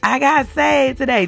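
rising excitement. Shown as a demonstration. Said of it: "text me and say".

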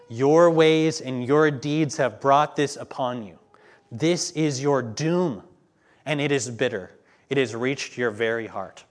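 slow, loud pronouncement of doom; solemn proclamation. Acted. Preacher reading the verdict of doom, slow and solemn.

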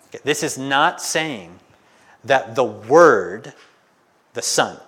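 ordinary talk, nothing marked

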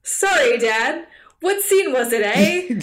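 lightly put-on Canadian accent; mock Canadian. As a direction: play an apologetic Canadian kid, lightly exaggerated accent. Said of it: "they're Americans and Canadians".

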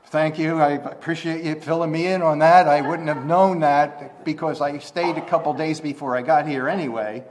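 sarcastic gratitude to Martha; sarcastic thanks. Pretend. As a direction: thank her dryly for stating the obvious.

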